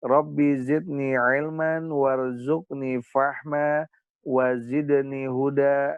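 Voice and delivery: slow, chanted opening prayer; slow prayer intoned to open the class. Acted. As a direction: draw out each word of the prayer. Teacher opens class with prayer.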